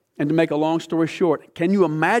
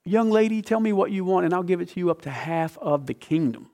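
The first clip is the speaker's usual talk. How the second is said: a hint of a smitten king; 2 semitones higher, 3 dB quieter than usual. King offering the queen anything, lightly voiced king. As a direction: play the king eager to please. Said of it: "And he says to her".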